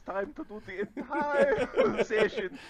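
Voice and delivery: a playful, hammed-up northern German accent, laughing through it; mock German accent. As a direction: announce the session in a put-on northern German accent. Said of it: "kind of northern German accent".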